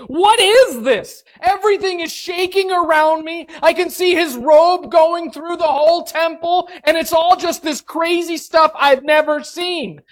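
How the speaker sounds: high, panicked cry of disbelief; mock terrified screaming. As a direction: shriek it like you're on the floor in terror. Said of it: "I would be on the floor screaming".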